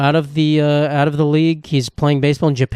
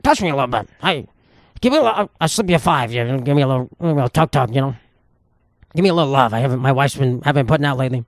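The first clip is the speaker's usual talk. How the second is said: mock-sleazy wheedling voice, pitched up at first; lightly voiced sleazy older man; sleazy older guy. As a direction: play a creepy regular coaxing the masseuse. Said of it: "was like".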